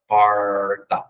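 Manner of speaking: "porta" com R caipira, língua enrolada. Shown as a demonstration. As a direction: roll the tongue back on "porta". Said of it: "quando eu falo por". (R caipira em "porta")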